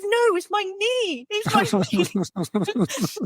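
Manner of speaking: slow, high wail, hammed up; mock pained protest. Injured man corrects the nurse about his knee, mock wailing. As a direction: imitate an aggrieved patient, stretching the words.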